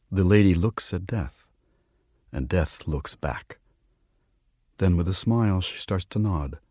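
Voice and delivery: measured storyteller's reading; quiet literary narration; story narration. A narrator's reading. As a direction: read the tale aloud, unhurried. Reads a story aloud.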